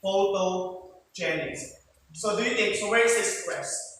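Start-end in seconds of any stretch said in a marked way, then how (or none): 0.0-1.6 "Photogenic" slowly, split into syllables; slow, measured "Photogenic". Shown as a demonstration. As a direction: sound out "Photogenic" for counting its syllables. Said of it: "So how many syllables?".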